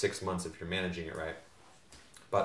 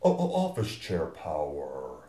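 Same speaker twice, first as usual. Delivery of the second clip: monster truck ad; 4 semitones higher, slower than usual. Acted. Mock monster truck intro.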